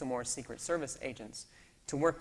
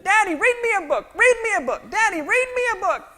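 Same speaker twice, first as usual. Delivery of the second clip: put-on much higher, louder child whine; whining toddler demand; 15 dB louder than usual. Daughter begging dad for a book, high child whine. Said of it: "She changes her screaming".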